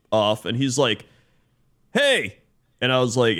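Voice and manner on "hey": put-on kid's hey. Kid greeting in story.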